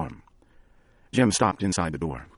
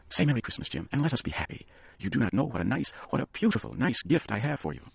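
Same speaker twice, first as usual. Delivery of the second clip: anxious pleading; 7 semitones higher than usual. A narrator's reading. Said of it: "she cried".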